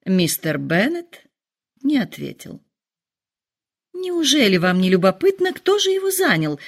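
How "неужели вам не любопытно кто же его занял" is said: нетерпеливый вопрос, взлёт голоса вверх на конце; сгорая от нетерпения, выше и выше; нетерпеливо. A narrator's reading. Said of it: "в нетерпении воскликнула она". (жена торопит мужа новостью, нетерпеливо и высоко)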